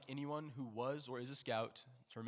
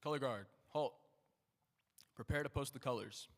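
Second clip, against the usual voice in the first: drill command. Real, not acted. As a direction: bark the order to the guard. Commands during flag ceremony.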